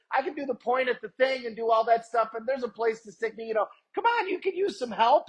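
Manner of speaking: high, manic genie voice waving goodbye; Robin Williams Aladdin genie. Retold or imitated. Pitching himself to the stressed gate agent as a zany genie, high and manic. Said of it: "like, Robin Williams Aladdin thing".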